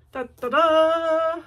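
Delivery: loud, slow sung ta-da; fanfare. Real, not acted. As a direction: belt out a ta-da fanfare. Presenting the finished piece.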